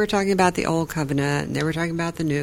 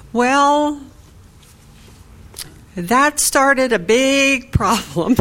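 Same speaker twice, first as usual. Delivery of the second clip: excited exclamation; 6 semitones higher, 5 dB louder, much slower than usual. Real, not acted. Reacting to the start of trouble.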